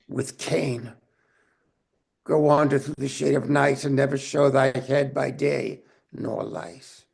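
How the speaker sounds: measured Shakespearean delivery; dramatic verse reading. Acted. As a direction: read the lines with solemn weight. Reads Bolingbroke's closing verse.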